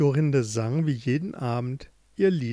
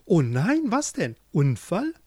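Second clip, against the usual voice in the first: alarmed, slightly higher questions; startled; 4 semitones higher, 3 dB louder than usual. Acted. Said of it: "dass sie erschrak". (erschrocken nachfragen)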